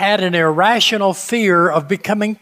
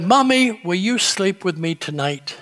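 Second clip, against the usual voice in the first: put-on trembling child voice. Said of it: "in a trembling voice".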